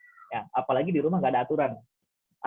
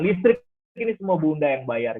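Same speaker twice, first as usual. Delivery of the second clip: mock angry mother; 4 dB louder than usual. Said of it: "berbalik marah".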